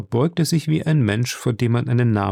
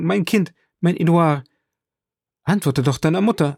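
frantic mother; 3 semitones higher than usual. A narrator's reading. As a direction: beg for your child, growing desperate. Mother pleads over fainted son.

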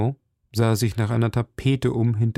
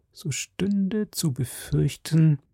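leise, langsame geflüsterte Sorge; flüstere die Befürchtung; geflüstert; 6 semitones higher, slower than usual. A narrator's reading. (leise geflüstert)

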